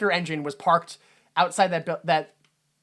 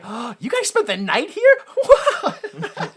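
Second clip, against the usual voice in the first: high, giggling disbelief bubbling over; high-pitched unhinged giggle at the kids; crazed laughing mom; 14 semitones higher, much slower than usual. Retold or imitated. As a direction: laugh through it like she's snapped. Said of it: "Joker crazy grin on her face".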